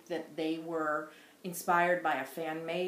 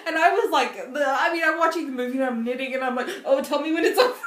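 talking through laughter, higher and louder; giggly retelling; laughing; 10 semitones higher, 10 dB louder than usual. Real, not acted. Laughing while retelling movie night.

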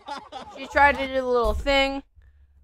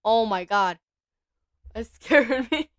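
laughing off fear; 3 dB louder than usual. Real, not acted. Startled by the cat, then laughs it off.

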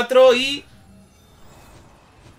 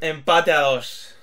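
slow, lower, drawn-out call; 6 semitones lower, 3 dB quieter, much slower than usual. Acted. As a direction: stretch every word slowly. Drawn-out tie announcement.

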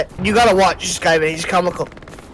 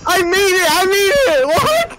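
high, excited surprise; thrilled you survived; excited disbelief; 5 semitones higher than usual. Real, not acted. Surviving a run.

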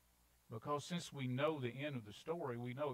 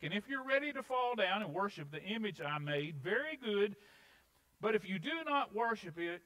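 high, loud royal decree; preach; 7 semitones higher, 8 dB louder than usual. Acted. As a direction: proclaim the king's ultimatum loudly. Reads the king's decree forcefully.

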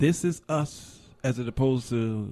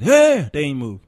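excited marvel; 5 semitones higher, 12 dB louder than usual. Retold or imitated. Marvelling that buffalo obey.

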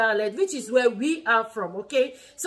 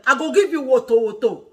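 firm mock threat with attitude; a pointed warning, lightly acted; 4 dB louder than usual. Shown as a demonstration. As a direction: demonstrate a parent's warning. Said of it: "say it now with an".

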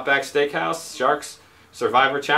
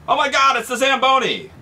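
mock panic; 8 semitones higher, faster than usual.

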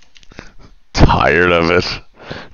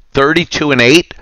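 incredulous; 5 semitones higher than usual. Real, not acted. Reading cheater's score in disbelief.

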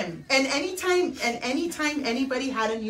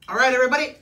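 Tío Chon voice. Pretend. Asked to be Tio Chon, lightly voiced drunk uncle plugging social media. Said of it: "Tio Chon's voice".

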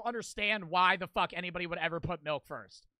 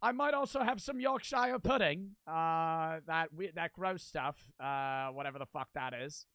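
mock a Brit listing British food; bad British accent. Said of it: "that was a British accent".

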